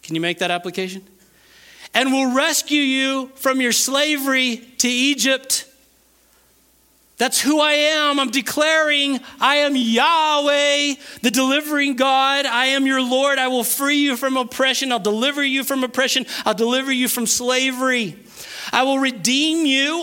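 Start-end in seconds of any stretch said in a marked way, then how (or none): 1.9-5.6 raised, deliberate proclamation; slow scripture reading. Real, not acted. Preacher reads God's promise of rescue to congregation, deliberate. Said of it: "I'm gonna read it really slow". 7.2-20.0 high, sustained proclamation as God; emphatic preaching. Acted. Preacher voices God promising deliverance to Israel, emphatic.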